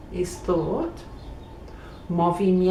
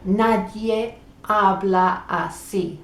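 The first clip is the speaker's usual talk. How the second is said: slow model sentence; 3 dB louder, slower than usual. Shown as a demonstration. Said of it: "That means nobody talks like that".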